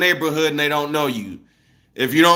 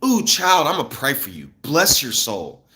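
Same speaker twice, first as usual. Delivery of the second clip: sweet fake blessing, slowing at the end; mock the neighbor's fake pity; passive aggressive churchy voice. Mimicking a passive aggressive neighbor, sugary slow blessing. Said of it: "They'll say things like".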